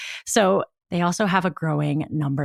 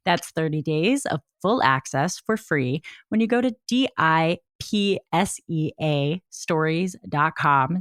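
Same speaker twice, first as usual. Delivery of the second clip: sexy voice. Shown as a demonstration. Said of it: "That was me trying to have a sexy voice".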